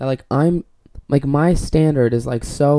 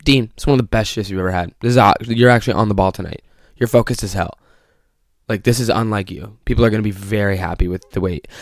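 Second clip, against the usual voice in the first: inner voice; 4 semitones lower than usual. Retold or imitated. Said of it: "My conscience said to me".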